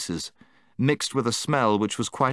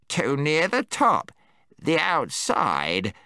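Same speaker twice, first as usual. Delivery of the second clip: shuddering; 4 semitones higher, slower than usual. Acted. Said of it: "said Golg, shuddering".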